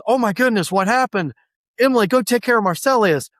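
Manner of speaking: lightly dramatized alarm; mock alarm. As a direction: act out a worried discovery, then give orders. Acted alarm on finding injured men.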